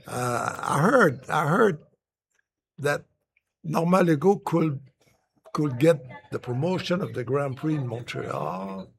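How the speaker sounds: put-on English with a thick Québécois accent; halting English, Québécois accent. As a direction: play a Montrealer fumbling through English in a Québécois accent. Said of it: "avec mon accent, euh, de Falardeau".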